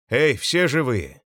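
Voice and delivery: drawn-out, mildly hoarse call. A narrator's reading. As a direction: call out to survivors, lightly croaked. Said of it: "прохрипел майор".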